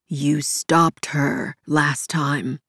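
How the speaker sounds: slow, soft and steady reassurance; calm her without giving ground; soothing but firm. Acted. Comforting the grieving woman, soothing yet firm. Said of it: "his tone soothing but firm".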